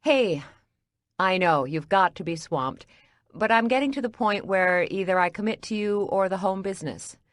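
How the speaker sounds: bright, forced smile in the voice; forced cheerful. Acted. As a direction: sound cheerful through frustration. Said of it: "I forced a smile in my voice".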